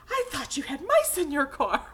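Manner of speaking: mock alarm of the lady seeing mice; lightly voiced amazed friend; surprised quote. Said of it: "and she came up and she said".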